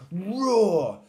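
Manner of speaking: high, loud, falling roar, not whispered; mouse roaring. A narrator's reading. Mouse showing Little Lion how, high roar. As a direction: demonstrate a roar for him. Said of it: "she whispered softly into his ear".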